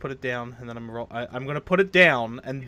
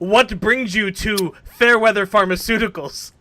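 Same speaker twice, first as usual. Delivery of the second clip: in-character question; 8 semitones higher, 6 dB louder than usual. Acted. Player speaking in character to NPC.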